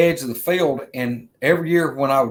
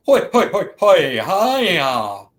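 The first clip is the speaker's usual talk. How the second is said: much higher, loud hooting answer; high, loud answering whoops; second creature's call; 4 semitones higher, 4 dB louder, slower than usual. Retold or imitated. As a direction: answer back like a second wild beast. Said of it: "the other one would go".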